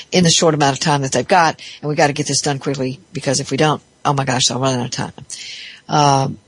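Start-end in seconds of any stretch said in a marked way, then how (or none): 1.8-5.1 a touch of panicky hurry; rushed pressured talk. Retold or imitated. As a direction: rattle it off like time is running out. Voicing a rushed, pressured speaker.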